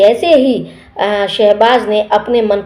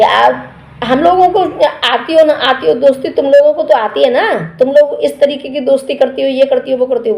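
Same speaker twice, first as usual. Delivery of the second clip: higher, accusing mock rant; imitating a heated retort; 4 semitones higher than usual. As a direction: throw the taunts back at her, hammed up. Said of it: "उसने तेज तेज बोल दिया".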